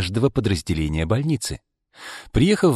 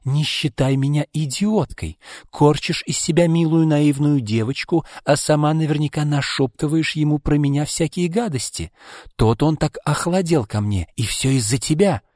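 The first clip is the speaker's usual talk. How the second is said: raised, indignant pitch; acted angry tirade, higher voice; jealous accusation; 5 semitones higher than usual. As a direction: accuse your rival of stealing him. Jealous fiancée accuses rival.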